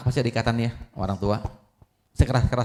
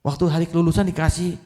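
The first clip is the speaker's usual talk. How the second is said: surprised; 4 semitones higher than usual. Acted. Xiaoming kaget mengenali buku.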